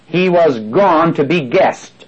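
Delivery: slow, leaning on "He was gone to be guest"; stress on to be guest. Shown as a demonstration. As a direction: draw out "to be guest" for weight. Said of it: "I'm emphasizing to be guest".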